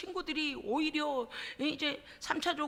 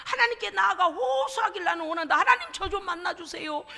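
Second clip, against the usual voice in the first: Job's pleading cry; 4 semitones higher, 4 dB louder than usual. Acted. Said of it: "하나님께 뭐라고 하냐면".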